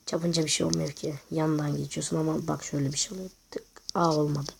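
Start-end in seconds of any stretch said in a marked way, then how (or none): 1.3-4.5 whispering. Real, not acted. Whispered aside during play.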